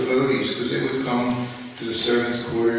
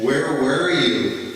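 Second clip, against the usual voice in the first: slow, louder scolding of a servant; retold angry yell; 3 semitones higher, 5 dB louder, much slower than usual. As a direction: bark it out like a guru who was kept waiting. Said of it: "he's screaming at me".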